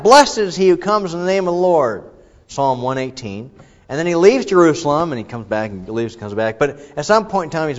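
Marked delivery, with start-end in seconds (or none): 0.0-2.1 raised, louder proclamation; crowd crying out. Retold or imitated. Crowd greeting Jesus at the city, calling out loudly. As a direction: call it out like the crowd. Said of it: "They cry out".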